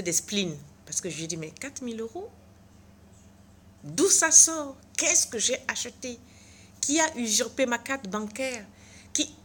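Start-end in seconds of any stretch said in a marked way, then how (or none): 1.4-9.3 frantic, higher and louder questions; panicking over the stolen money; panicked outburst. Retold or imitated. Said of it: "J'étais dans tous mes états". (affolée, plus aiguë et plus forte)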